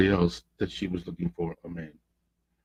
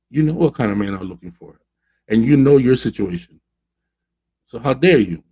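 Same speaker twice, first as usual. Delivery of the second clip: mildly angry confrontation, rising in pitch; imitated hurt outrage; retold indignation; 3 semitones higher, 4 dB louder than usual. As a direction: act out a hurt friend telling him off. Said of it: "It was a mixture of angry, upset, hurt".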